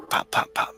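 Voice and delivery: quick spoken gunshot pops; imitated gunfire. Game master asking about shooting at this guy, imitated gunfire. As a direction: pop out three shots.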